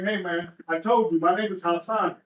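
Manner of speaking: "my name is Hassan" said with a strained, patient calm; forced calm. Retold or imitated. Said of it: "I'm like".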